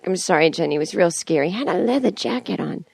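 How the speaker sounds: a hint of a scared Boston dad; dad's Boston accent. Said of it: "This is my impersonation I've been doing of him".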